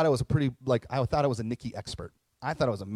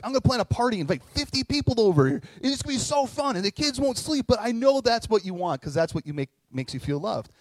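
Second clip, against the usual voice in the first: much higher and louder, gushing mock enthusiasm; hammed-up excited planner; 8 semitones higher, 6 dB louder than usual. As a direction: play the clueless eager husband, all pitch and volume. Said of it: "I was probably like".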